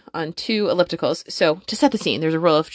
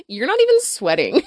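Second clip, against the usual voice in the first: higher pitch, breaking into laughter; laughing taunt; 12 semitones higher than usual. Retold or imitated. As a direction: retell the jab while cracking up. Laughing over her retold taunt.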